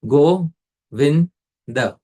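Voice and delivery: Go, vin, the each said apart with a pause between; spelling out Go vin the slowly, syllable by syllable; syllables spaced out. Shown as a demonstration. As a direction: tap out go, vin, the one syllable at a time. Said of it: "when the final syllable the is uttered".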